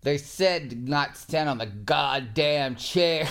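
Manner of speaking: drawn-out, emphatic mock scolding; retold angry scolding. Retelling a relative's scolding to the hosts, mock angry. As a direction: scold slowly, hitting each word.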